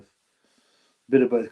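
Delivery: "A bit of both" stretched out very slowly; slow, deliberate "bit of both"; slow drawn-out. Shown as a demonstration. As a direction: drag out every word of "A bit of both". Repeating phrase, playing with it.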